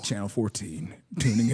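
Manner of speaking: low mock station announcer; radio voice. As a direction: play along as a deep radio DJ. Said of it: "give us your best radio voice".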